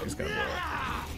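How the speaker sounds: silly high voice. Pretend. Repeats warning in silly voice.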